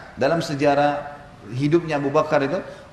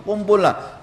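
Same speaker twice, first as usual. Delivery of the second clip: summoning call; 6 semitones higher, much slower than usual. Acted. Abu Bakar calling the Quraisy chiefs to gather.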